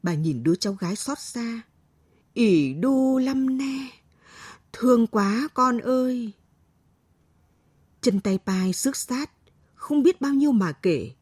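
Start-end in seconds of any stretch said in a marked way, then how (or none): 2.3-6.3 put-on high, slow old grandmother voice; pitying grandmother. A narrator's reading. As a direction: croon with pity as an old woman.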